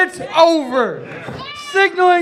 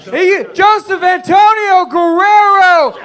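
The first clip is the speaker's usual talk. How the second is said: wrestling commentator; 5 semitones higher than usual. Real, not acted. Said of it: "I can't contain myself".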